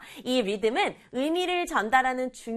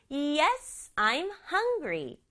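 slow, higher answer with "Yes" and "hungry" standing out; stress on YES and HUNGRY; 5 semitones higher, much slower than usual. Shown as a demonstration. Teacher repeats for the children, stressing "Yes" and "hungry". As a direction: lift "Yes" and "hungry", falling at the end. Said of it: "중요하죠".

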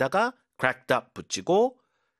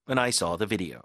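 whisper; 4 semitones lower, slower than usual. Shown as a demonstration. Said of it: "이렇게 힘 주시고".

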